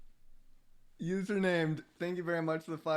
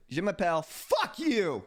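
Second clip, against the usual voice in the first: cheeky mock intro. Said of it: "How was that?".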